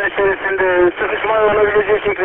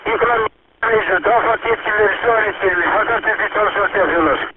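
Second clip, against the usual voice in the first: police radio. Real, not acted. Earthquake emergency radio traffic.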